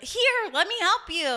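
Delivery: rescuer calling out. Acted. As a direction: hail someone from a passing boat. Voicing speedboat crew calling out.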